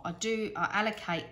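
words slurred by loose teeth; loose dentures. Real, not acted. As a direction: talk around slipping dentures. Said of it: "let me put my teeth back in".

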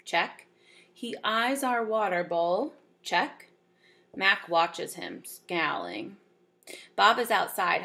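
measured read-aloud with lifted key words; storybook reading; story narration. Acted. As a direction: read it aloud to a class, phrase by phrase.

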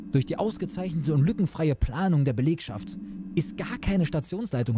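lightly voiced dry, sardonic night nurse; nurse Karl. Night nurse briefs the doctor, lightly sardonic. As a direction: deliver the sarcasm deadpan.

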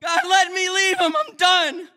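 high loud tearful plea; emotional cry. Real, not acted. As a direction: push through the tears. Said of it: "I got a little emotional right there".

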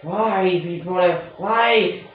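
high, loud exasperated ranting; angry rant. Real, not acted. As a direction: rail against the designers. Ranting at the game makers.

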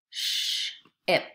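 "sh-ip" split, long hushing sh, pause, then ip; segmented digraph. Shown as a demonstration. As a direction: hold the "sh" in "sh-ip", break before "ip". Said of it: "Listen to this word as I say it".

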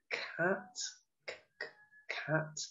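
"Cat" squeaked high and soft, "c-, c-" stuttered; questioning cat. Shown as a demonstration. Teacher to children, puzzling high over "cat". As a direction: wonder aloud at the odd one out. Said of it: "how you say it".

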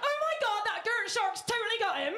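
comic Bristolian voice; Bristol accent. Acted. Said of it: "if you're from Brazil".

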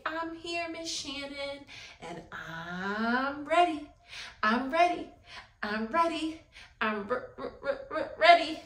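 put-on lightly playful child's answer; mock child reply. Shown as a demonstration. Teacher showing the girls what to answer. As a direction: model the kids' reply, stuttering at the end. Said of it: "I want you to say".

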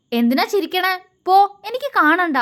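sulking husband pushes his wife away; sulky. A narrator's reading. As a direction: pout like a hurt child. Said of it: "അവൻ പിണക്കത്തോടെ പറഞ്ഞു".

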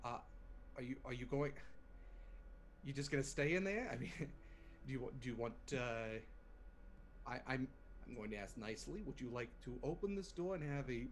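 lightly voiced annoyed boss; a hint of a put-out spaceport owner; Red's voice. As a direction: GM voicing Red, irritated but polite. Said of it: "you kind of hear Red's voice".

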